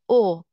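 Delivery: او as Persian o, mouth fully open; loud, open back vowel on او. Shown as a demonstration. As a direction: punch out a clear back او.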